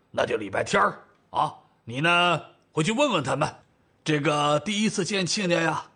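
rustic elder with stretched endings; old father, directing. Acted. Father arranging the family meal, directing everyone. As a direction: lay out the plan unhurriedly.

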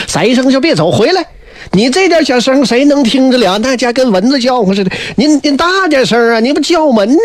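exasperated scolding. Acted. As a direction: urge him to speak up, half scolding. Minister scolds faint calling.

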